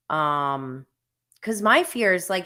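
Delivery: ordinary talk, nothing marked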